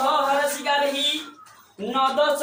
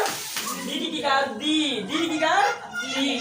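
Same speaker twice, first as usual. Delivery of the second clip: slow spelling out; 2 semitones higher, slower than usual. Shown as a demonstration. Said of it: "क्या, कौन कार?".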